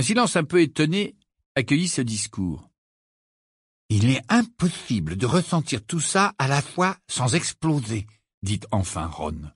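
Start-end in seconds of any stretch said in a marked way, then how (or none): 3.9-8.1 mildly incredulous, pitched up; stunned disbelief. Acted. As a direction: protest that this is beyond belief. Ron stunned by the speech. (légèrement incrédule)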